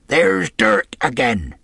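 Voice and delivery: rough sailor on alert; alarmed gang member. A narrator's reading. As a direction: call the signal to your mates. Gang member hears alarm signal.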